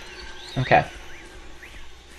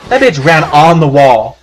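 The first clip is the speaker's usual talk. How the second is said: laughing; 5 dB louder, slower than usual. Real, not acted. Laughing at the zombie.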